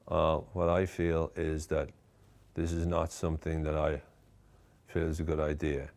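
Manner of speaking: like a zombie barely spitting out words; bored, dead. Shown as a demonstration. Coach showing bored talk with slack face, lifeless drone. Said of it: "mix the tone of voice we already talked about".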